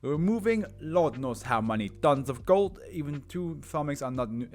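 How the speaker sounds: put-on lively Italian accent, bursts of emphasis. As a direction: explain magic grandly like an Italian mage. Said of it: "my Italian accent".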